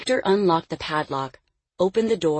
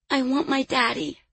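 put-on high-pitched small child's voice; tearful little girl; 8 semitones higher than usual. A narrator's reading. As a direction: plead as a little girl close to tears. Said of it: "tears filling her eyes".

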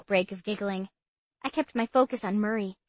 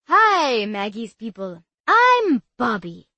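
put-on bubbly boy introducing himself; eager boy voice; 8 dB louder, slower than usual.

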